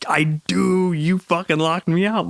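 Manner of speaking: high, incredulous retold complaint; exasperated outburst. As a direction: pitch jumps way up in mock outrage. Locked out, exasperated at wife.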